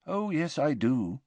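gentle, unbothered reply; a mild old headmaster's calm. A narrator's reading. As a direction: headmaster gently correcting a frightened boy, mild. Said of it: "said Dumbledore mildly".

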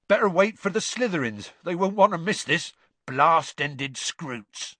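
a hint of a big gamekeeper; lightly voiced Hagrid; gruff giant voice. A narrator's reading.

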